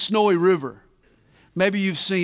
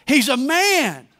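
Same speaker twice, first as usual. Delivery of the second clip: slow, higher declaration; louder for emphasis; 3 semitones higher than usual. Retold or imitated. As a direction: lean in and proclaim it. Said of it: "this time louder for emphasis".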